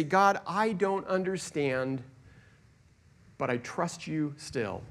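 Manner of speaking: slow, softening surrender; humble prayer. Pretend. Humble believer praying to God, slow and soft. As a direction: let it fall away into quiet trust. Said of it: "in humility, say".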